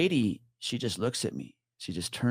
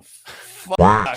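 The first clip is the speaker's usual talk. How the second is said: startled curse; 12 dB louder than usual. Retold or imitated. Reacting to the eerie woman.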